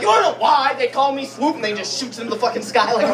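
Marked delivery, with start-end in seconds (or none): 0.0-1.5 higher, louder mock version of the stranger; replaying the Swoop line; the same stranger, lightly voiced again; imagined homeless man. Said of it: "I like to imagine he's like".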